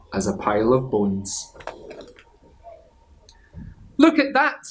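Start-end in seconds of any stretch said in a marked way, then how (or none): 4.0-4.6 high, loud astonished cry; surprised exclamation. Acted. Big skeleton seeing the dog in pieces, high astonished cry. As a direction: gasp it out in amazement. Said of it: "the big skeleton said".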